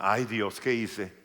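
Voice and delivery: a hint of a panicked María; worried Latina girl. María hearing the news, mock alarm. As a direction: gasp it like a girl in trouble. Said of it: "María siendo una latina".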